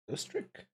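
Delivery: rising like a question; uptalk. Real, not acted. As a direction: end it on an upward lilt as if unsure. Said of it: "I said it in the form of a question".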